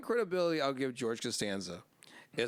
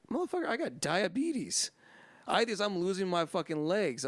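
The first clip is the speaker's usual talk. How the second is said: higher, mock outraged complaint; indignant rant; 5 semitones higher than usual. Diabetic man scolding the guy handing him donuts, hammed-up indignation. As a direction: act insulted and a bit hammed-up. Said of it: "He's like".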